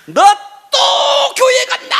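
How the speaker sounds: high, loud shouted accusation; a full-voiced shout of the angry aunt; angry aunt yelling. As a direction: yell it at her like the furious aunt. Aunt angrily confronting niece.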